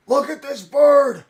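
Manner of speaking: high, loud, thrilled yelling about a bird; bursting with awe, laughing by the end; excited shouting. Pretend. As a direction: gush at the photo like it's a miracle. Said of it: "computer and go".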